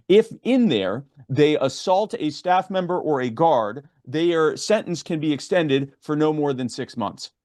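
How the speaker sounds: measured, emphatic phrasing; careful slow explanation of a subtle point; slow and deliberate. Real, not acted. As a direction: lay out the condition slowly, piece by piece. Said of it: "I'm gonna say it slowly".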